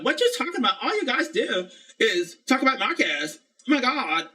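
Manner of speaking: high mocking white girl. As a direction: mimic her dismissive white-girl tone. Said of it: "she like to talk like a white girl".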